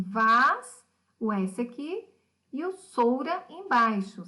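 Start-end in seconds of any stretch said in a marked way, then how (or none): 0.0-0.9 vas as a loud, detached syllable; separated syllable. Shown as a demonstration. Teacher splitting vassoura at line's end, emphatic syllable. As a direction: punch out vas on its own. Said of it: "ela tá separada assim".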